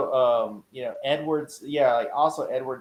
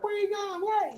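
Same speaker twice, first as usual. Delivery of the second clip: mock startled call; 6 dB quieter than usual. Mimicking Maroney calling after him.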